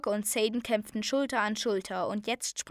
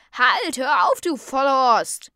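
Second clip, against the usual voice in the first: loud, high scolding shout; called out; 4 semitones higher, 11 dB louder, slower than usual. A narrator's reading. A voice stopping the beating, angry loud shout. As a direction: yell to stop someone at once. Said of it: "dann rief eine Stimme".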